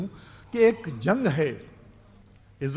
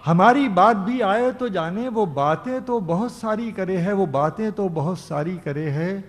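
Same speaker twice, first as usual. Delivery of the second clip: declaiming a ghazal couplet; ghazal recitation; 4 semitones lower, slower than usual. Acted. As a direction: recite each line like poetry on stage. Poet recites verse at mushaira.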